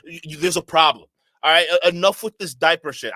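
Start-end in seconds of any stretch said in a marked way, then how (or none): 1.4-3.1 fed up, louder, cutting it off; enough, shut it down; louder exasperated snap; loud exasperated outburst. Real, not acted. Reacting loudly to a clip.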